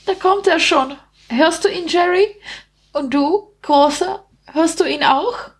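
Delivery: high-pitched, gleefully taunting rat; grinning rat. A narrator's reading. Rat asking if they hear the killer coming, high grinning voice. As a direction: taunt through a grin as a little rat. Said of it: "grinte die etwas größere der beiden Ratten".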